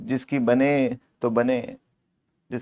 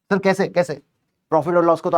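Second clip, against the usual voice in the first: higher, eager student asking how; puzzled student; 4 semitones higher than usual. Acted. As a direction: play a student who can't follow. Teacher voices a puzzled student.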